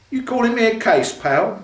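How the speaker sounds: high, loud Cockney challenge; Cockney tough guy squaring up; Cockney hard nut. A narrator's reading. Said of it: "Joe said in Cockney hard nut mode".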